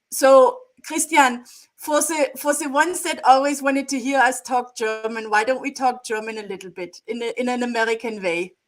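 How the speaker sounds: put-on German accent in English; lightly hammed-up German accent. Wife teasingly asks husband to talk German, mock German accent. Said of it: "English language with a German accent".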